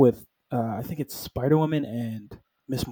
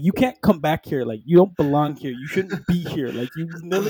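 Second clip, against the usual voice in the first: mock-indignant scolding, raised a little; 3 semitones higher than usual. Pissed-off robot Vision tells Scarlet off, scolding. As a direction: mildly tell someone off in mock outrage. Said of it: "he scolds her".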